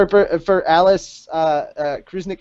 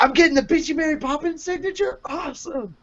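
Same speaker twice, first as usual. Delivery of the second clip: mock sarcastic fan. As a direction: sneer it like a snarky fan. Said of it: "The Holy Herald's like".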